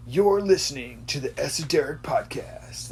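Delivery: whispered bro-style podcast intro; bro radio intro. Shown as a demonstration. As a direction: breathe it like a cool bro DJ.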